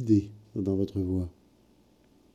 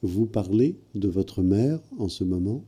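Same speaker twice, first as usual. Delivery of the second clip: slower, carefully spaced repeat; slowed for clarity. Real, not acted. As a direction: repeat it slowly so she catches it.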